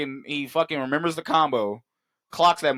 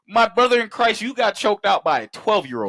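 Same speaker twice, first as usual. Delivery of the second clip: mock outrage; 8 semitones higher, 4 dB louder than usual. Real, not acted. Roasting friend's claim.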